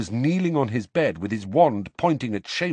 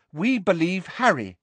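simply; 8 semitones higher than usual. A narrator's reading. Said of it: "said Neville simply".

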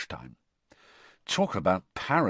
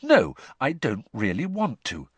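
firmly; 3 semitones higher than usual. Acted. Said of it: "a little more firmly".

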